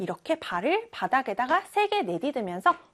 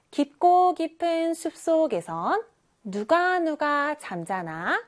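call-and-response reading; 3 semitones higher, slower than usual. Shown as a demonstration. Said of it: "선생님이 빨간색 글씨를 읽을 테니까".

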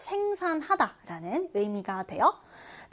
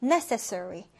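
necessary with main stress on NE; stress on first syllable; 4 semitones lower, much slower than usual. Shown as a demonstration. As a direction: say necessary as NE-ces-sar-y, first syllable strong. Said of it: "첫 음절의 일 강세 지켜서".

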